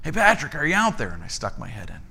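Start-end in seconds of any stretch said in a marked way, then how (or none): 0.0-1.1 retold call from another room, slightly raised pitch. Pastor calls to assistant from his office, calling out. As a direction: imitate calling out to someone nearby. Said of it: "I heard him call from the office".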